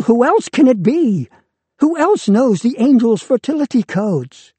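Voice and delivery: high, loud spiteful cry; malicious. Acted. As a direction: hurl it after him, trembling. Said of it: "weak voice behind him, trembling with malice".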